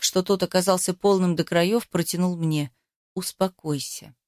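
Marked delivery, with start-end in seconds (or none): 3.1-4.1 much lower, softer and slow, each syllable measured; clipped command. A narrator's reading. Ruslan ordering the heroine, low measured command. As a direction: spell it out coldly, slowly. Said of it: "прочеканил он".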